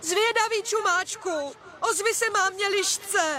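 high, slow searching call; mother's drawn-out call into the distance. Acted. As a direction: stretch the words out, calling for your child. Mother fox calls lost cub.

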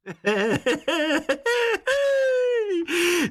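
very high, far-off hooting laugh; high spirit laugh. Acted. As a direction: cackle like a merry sprite. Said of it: "Zasmál se Hejkal".

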